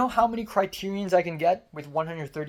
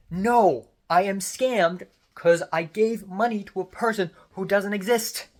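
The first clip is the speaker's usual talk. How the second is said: raised, indignant pushback; exasperated retort; 3 semitones higher, 4 dB louder than usual. Retold or imitated. Scammed customer answering a doubting bank agent, exasperated. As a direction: correct the agent with mounting frustration.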